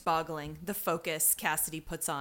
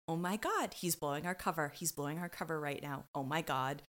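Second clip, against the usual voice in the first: hushed dismay; 3 semitones lower, 5 dB quieter than usual. Retold or imitated. Voicing Olivia's silent dismay.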